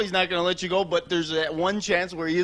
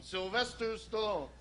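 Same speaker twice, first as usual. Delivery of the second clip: Stallone impression; 3 semitones higher, 12 dB quieter, slower than usual. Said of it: "here's a quick impression".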